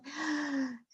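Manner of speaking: soft, drawn-out gasp; relieved breath. A narrator's reading. Fairyland falls quiet after the din, soft relieved breath. Noise stops, quiet descends.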